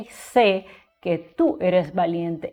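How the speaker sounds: slow, careful repeat; slow teacher's example; slow example read. Shown as a demonstration. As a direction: say it slowly again for students. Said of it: "Por ejemplo".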